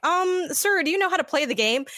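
hesitant polite question, fast; mock awkward handler. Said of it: "the people with you are like".

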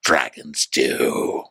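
lightly voiced brooding prince; Daemon voice. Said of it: "his voice".

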